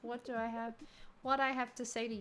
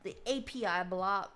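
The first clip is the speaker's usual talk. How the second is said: put-on Texas accent; 6 dB louder than usual. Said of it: "voice this guy in, like, a Texas accent".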